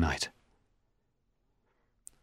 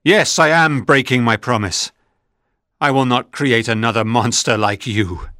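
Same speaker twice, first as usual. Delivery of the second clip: defiant; 3 semitones higher than usual. Acted. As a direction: stand firm and throw it back at him. Frankenstein defies the monster.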